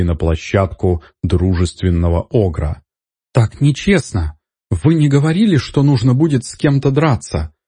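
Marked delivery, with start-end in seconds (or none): 3.3-7.5 high, outraged protest; indignant. A narrator's reading. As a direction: cry out that it's unfair. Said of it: "возмутилась Гелу". (возмущённо, высоким голосом)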